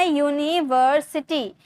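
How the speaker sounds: यूनिवर्सिटी stretched out slowly in three parts; slow syllable demo. Shown as a demonstration. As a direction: draw out "yuni-var-siti" in यूनिवर्सिटी. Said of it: "तीन syllable दिख रहे हैं ना".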